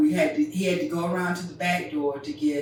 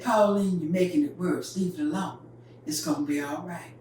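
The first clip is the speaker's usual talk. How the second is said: calm and easy. Retold or imitated. Daddy calmly telling Pauline to leave the dress alone. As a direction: ease her off the fuss. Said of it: "All calm and easy".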